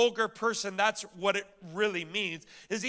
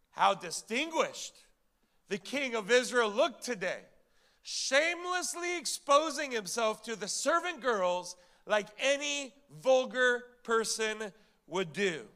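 disgusted sarcasm; 3 semitones higher than usual. Acted. Wife scorns the king for exposing himself, disgusted sarcasm. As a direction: draw it out in mild scorn. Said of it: "She said in disgust".

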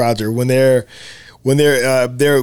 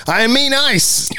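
flat correction; 10 semitones higher, slower than usual. Retold or imitated. Retelling bartender's correction.

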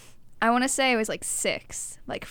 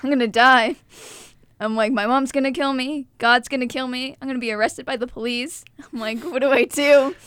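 put-on raised, panicky child's voice; kid freaking out; 2 semitones higher, 5 dB louder than usual. Six-year-old panicking about the swallowed sticker, mock frantic. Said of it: "six-year-old me's freaking out".

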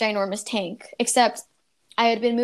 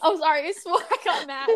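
laughing; 5 semitones higher than usual. Real, not acted. Apologizing while laughing.

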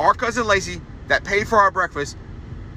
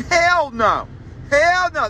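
outraged exclamation; 10 semitones higher, slower than usual. Real, not acted. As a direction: bark it out indignant, pitch jumping up. Outraged at kids' pancakes.

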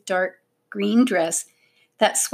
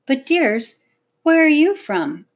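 kindly questioning; 6 semitones higher, 4 dB louder than usual. A narrator's reading. Lady crouches to question children.

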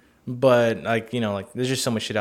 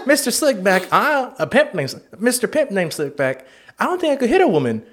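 high, hesitant straight-man voice; mock-nervous stammered protest; Tom; 9 semitones higher than usual. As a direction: imitate a timid man objecting, pitched up. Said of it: "teach Tom".

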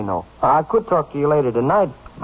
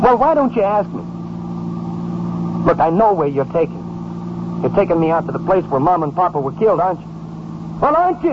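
rising agitation. Acted. Henry challenging the rangers on the drive, rising agitated demand. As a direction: push harder on each question till it cracks upward. Suspect confronts rangers in car.

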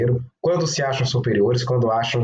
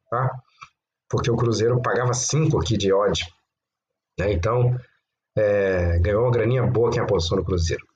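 sore throat voice. Real, not acted. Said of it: "minha voz já tá horrível aqui, já tô com dor de garganta".

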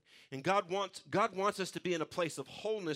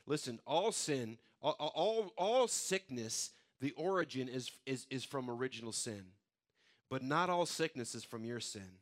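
slowed right down, key words drawn out; slow and deliberate; 4 semitones lower than usual. Real, not acted. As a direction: say it slowly so every word lands. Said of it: "say it slow again this week".

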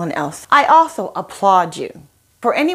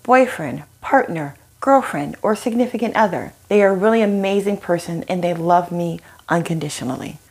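gentle gratitude; 3 semitones lower than usual. Shown as a demonstration. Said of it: "instead, say".

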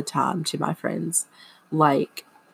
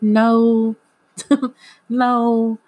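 higher, louder no, laughing through it; giggly denial; 7 semitones higher, 4 dB louder than usual. Retold or imitated. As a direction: brush it off with a giggle. Laughing denial in retold scene.

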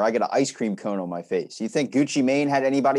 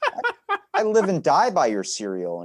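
squeaky, much higher, louder and slow; hammed-up outrage; 10 semitones higher, 5 dB louder, slower than usual. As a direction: overplay a cereal fan's wounded pleading. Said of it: "And I was like".

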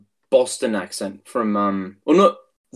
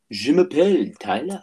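drawn-out put-on French accent; playful French lilt. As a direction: introduce yourself in mock French.

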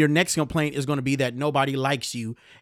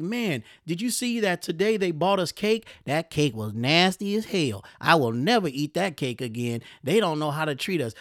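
higher, disgusted griping coworker; mock complainer; 4 semitones higher, 3 dB louder than usual. Coworker complaining about free cake, hammed-up disgust. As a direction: gripe about the nasty cake.

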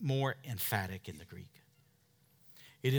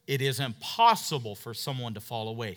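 normal talking voice

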